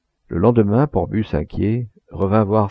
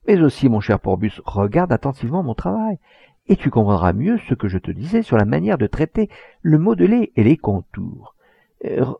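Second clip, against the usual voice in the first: put-on eager old painter showing off his work; impassioned artist explaining his craft; proud old master painter; 3 semitones higher than usual. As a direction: voice climbing with fervour as he shows the canvas.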